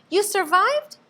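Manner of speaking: high, loud amazement; excited cry. A narrator's reading. Stellaluna cries out to her mother, high and joyful. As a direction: burst out in joy.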